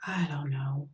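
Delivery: hushed unvoiced whisper; almost a whisper. A narrator's reading. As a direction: breathe it out barely audible. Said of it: "almost in a whisper".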